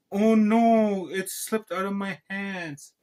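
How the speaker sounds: high, loud fake oops, easing off slowly; mock dismay. Teacher excuses grabbing the girl's robot, mock dismay. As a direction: play up a phony accident.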